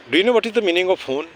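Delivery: slow, deliberate English question; slow teacher question. Shown as a demonstration. Teacher asking the children, slow and deliberate. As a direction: spell it out slowly for the kids.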